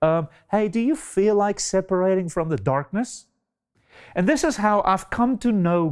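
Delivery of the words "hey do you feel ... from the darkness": casual, higher-pitched mock request; tentative asking. God supposedly asking the light, mock-casual request. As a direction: ask it like a polite, optional favor. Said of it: "God did not ask the light".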